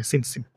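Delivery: "সিন সিন" quick, both with the same s; merged careless reading. Shown as a demonstration. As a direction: run "সিন সিন" together softly, no contrast. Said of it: "একরকম পড়ে ফেলি".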